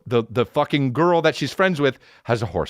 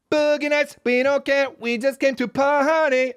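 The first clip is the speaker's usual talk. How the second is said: much higher mock party-people voice; carefree partygoers. Mocking the partygoers who ignore him, high airy party voice. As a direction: toss it off like a carefree partier.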